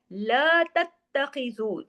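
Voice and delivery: very slow chanted recitation; Quran recitation. Shown as a demonstration. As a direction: recite with idgham, drawn out. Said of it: "सख्ती से जोड़ना है". (धीमी तजवीद वाली तिलावत)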